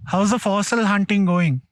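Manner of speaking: loud call across distance. Real, not acted. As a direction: call out to the group. Calls out to others.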